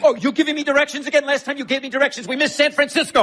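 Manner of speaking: angry screaming match; furious yelling. Acted. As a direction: scream at the bumbling friend. Screaming quarrel while carrying wife.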